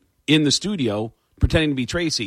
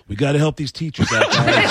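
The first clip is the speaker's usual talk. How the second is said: mock host announcement. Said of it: "you come back from commercial".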